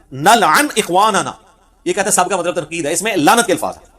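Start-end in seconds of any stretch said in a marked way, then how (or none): 0.1-1.3 very slow, deliberate quotation; slow recitation. Shown as a demonstration. Preacher quoting the hadith's exact Arabic, slow and deliberate. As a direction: spell out the Arabic word by word.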